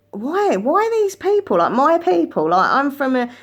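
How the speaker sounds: high, rising outrage at the unfairness; indignant inner voice. Retold or imitated. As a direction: ask it like a protest, getting heated. Inner thought about her people.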